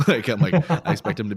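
words spilling out through a loud laugh. Real, not acted. Laughing while picturing Napoleon conquering the world.

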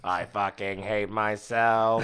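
dumb robot voice. Pretend. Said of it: "It's the robot".

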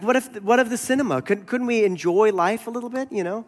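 high-pitched, lightly acted appeal; mock pleading. Academic visitor appealing to Bonhoeffer, mock pleading.

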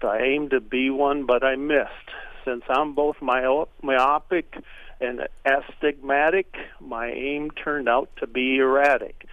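measured reading of light verse; understated humorous poetry reading; comic poem recitation. Acted. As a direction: recite it in rhyme, landing each couplet. Reads a comic poem aloud.

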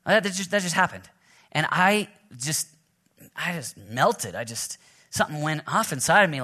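ordinary talk

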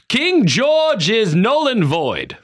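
hammed-up colonial proclamation against the king; mock grand declaration. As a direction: proclaim it like a pompous town crier. Acting colonial assembly declaration.

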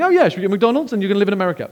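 high, loud parody of casualness; mimicking a flippant remark; mock light-hearted. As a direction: toss it off quickly, exaggerating the other man's breeziness. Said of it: "in a light-hearted way".

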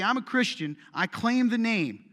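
loud, slow mocking of a proud claim; mock halfway Christian. Pastor mimicking a halfway Christian to the church, mocking. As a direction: parrot the half-hearted believer's boast. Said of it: "But if you say".

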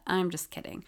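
usual speaking voice

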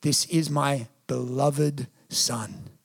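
slow, low, soft pronouncement; God's tender declaration. Acted. Preacher voicing God at Jesus' baptism, tender and hushed. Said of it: "What did God say?".

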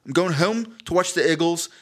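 Philly accent, "iggles" and "wooder"; lightly demonstrated Philadelphia accent. Shown as a demonstration. Philly fan off to watch football, Philly accent. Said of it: "so real Phil".

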